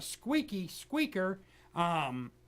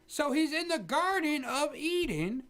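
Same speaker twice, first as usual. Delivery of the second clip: mock angry old preacher; 3 semitones higher than usual. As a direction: scold the interrupting host in a mock rage. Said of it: "Pat, are you there?".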